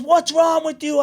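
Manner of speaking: very high, loud mock shout; exasperated dad. Dad pressing his crying son, exasperated retold shout. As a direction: imitate a father demanding an answer.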